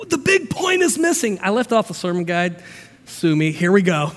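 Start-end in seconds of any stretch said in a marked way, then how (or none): 0.1-1.4 mock complaint. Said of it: "you're like".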